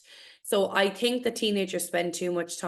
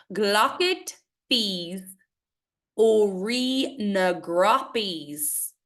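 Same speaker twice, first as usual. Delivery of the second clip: slow, measured recitation; poem reading; much slower than usual. Acted. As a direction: read each word carefully, with pauses.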